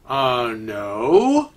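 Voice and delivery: low, hesitant dread with a rising end; uneasy inner thought. Acted. Kevin fails to recognize the woman greeting him, uneasy. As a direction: think it to yourself, low and uneasy. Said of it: "Kevin's thinking to himself".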